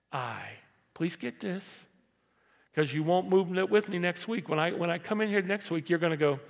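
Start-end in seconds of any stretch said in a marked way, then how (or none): none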